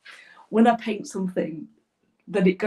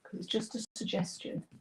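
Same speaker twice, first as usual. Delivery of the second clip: whispering; 9 dB quieter than usual. Real, not acted. Muttering while blending.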